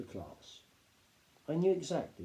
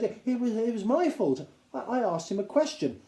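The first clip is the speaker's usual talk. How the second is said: nervous stammer; 10 semitones higher, 5 dB louder than usual. A narrator's reading. Boy stammers confession.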